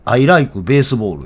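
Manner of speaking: slow English with Japanese Kansai intonation; Kansai-accented English. Shown as a demonstration. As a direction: recite it like an Osaka English teacher, Kansai accent. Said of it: "俺の英語全部関西イントネーションですよ".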